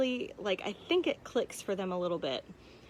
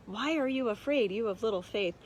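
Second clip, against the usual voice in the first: Jesus rebuking; 3 semitones higher than usual. Retold or imitated. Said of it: "for Jesus to respond".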